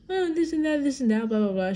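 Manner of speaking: high, brushing-off mimicry; mock the grandma waving it away; dismissive grandma. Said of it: "And she's like".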